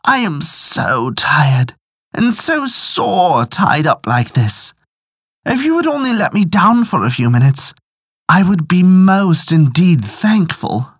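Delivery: pleading badger. A narrator's reading. Tied-up badger begs old woman to let him down, pleading.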